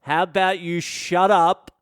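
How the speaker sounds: acted boss order breaking into a laugh; mock-stern boss losing it to laughter; bossy telling-off. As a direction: order them about, cracking up near the end. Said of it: "Everyone loves a boss like that".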